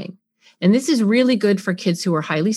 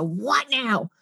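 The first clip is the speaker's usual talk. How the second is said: irritated; 3 semitones higher, 5 dB quieter than usual. Retold or imitated. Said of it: "I am not in there ready to go".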